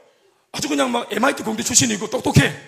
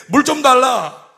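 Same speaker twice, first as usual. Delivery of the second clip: slow, louder, drawn-out request; Jesus asking gently; 3 semitones higher, 7 dB louder, much slower than usual. Retold or imitated. Jesus speaking to the woman at the well, slow and deliberate. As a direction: stretch out the request for water tenderly. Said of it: "이렇게 말 거실 때".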